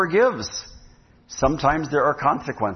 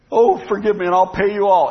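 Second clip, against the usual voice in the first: higher-pitched mock begging; pleading debtor; 5 semitones higher, 4 dB louder than usual. Servant begs his master over a massive debt, mock pleading. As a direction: act out a servant pleading for mercy.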